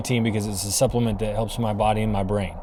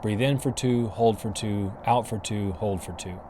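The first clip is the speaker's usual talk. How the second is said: short quiet count; 6 dB quieter than usual. Shown as a demonstration. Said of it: "I could do two to three seconds".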